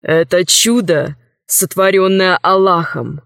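lightly voiced solemn ruler; solemn sultan. Sultan tells the king of a miracle, solemnly.

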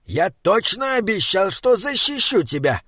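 a touch of earnest urgency; insistent troll guardian. Acted. Troll insists on his promise.

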